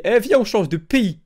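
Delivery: high, drawn-out mock enthusiasm; drunk impulse. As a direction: imitate a drunk having a brilliant idea. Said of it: "Toi, tu t'es dit".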